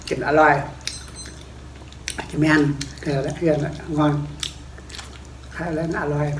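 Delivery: talking through a mouthful; eating while talking; mouth full. Real, not acted. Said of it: "Vừa nói vừa ăn. Xin lỗi nhá".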